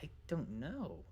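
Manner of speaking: chilled possum voice, unhurried; possum character. Acted. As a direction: draw it out softly as a laid-back possum. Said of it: "He's like".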